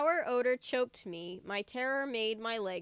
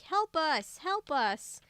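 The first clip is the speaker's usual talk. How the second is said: high, loud panicked wail; frantic wail for help; 6 semitones higher, 4 dB louder than usual. A narrator's reading. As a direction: plead in terror. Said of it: "Luke wailed".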